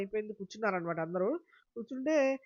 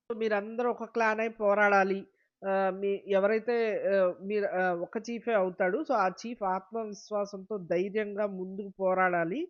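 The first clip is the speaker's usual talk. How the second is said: louder, slow, booming host announcement; announcer voice; 4 dB louder, slower than usual. Retold or imitated. Host announcing to the contestants, slow and loud. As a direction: proclaim it slowly to the whole house.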